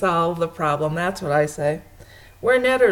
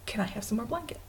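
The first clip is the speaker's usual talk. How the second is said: soft, timid-sounding imitated request; mock request; 10 dB quieter, faster than usual. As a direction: quietly act out asking for covers. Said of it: "I'm tired of going".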